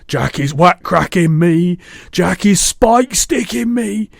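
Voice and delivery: high, slow, wailing giant bellow; panicked bellow. A narrator's reading. Giant bellows as dream Jack attacks him, terrified wail. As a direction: howl each blow out at full volume. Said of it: "bellowed the flesh lump eater".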